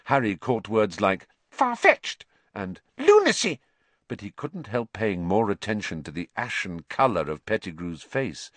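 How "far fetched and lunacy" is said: high squeaky rat-man mutter; squeaky nervous mutter. A narrator's reading. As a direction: mutter distractedly in a thin voice. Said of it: "Pettigrew was muttering distractedly".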